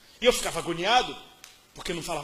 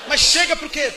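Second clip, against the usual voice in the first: surprised; 7 semitones higher, 12 dB louder than usual. Retold or imitated. Asking the question in mock disbelief.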